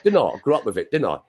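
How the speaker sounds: quick-fire Cockney tag questions; casual homegrown Cockney; Cockney accent. Shown as a demonstration. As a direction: show off a real London Cockney. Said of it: "a real Cockney accent".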